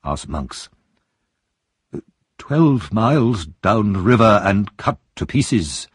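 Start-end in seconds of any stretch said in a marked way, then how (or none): 2.4-5.9 shaky voice. Acted. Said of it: "in a shaky voice".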